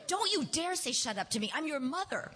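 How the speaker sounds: mild high-pitched angry rebuke; a touch of a hissing mother; hissed. A narrator's reading. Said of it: "I hissed this".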